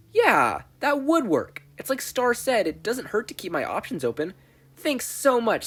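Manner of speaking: put-on high, eager boy; bursting with relief and hope; excited realization.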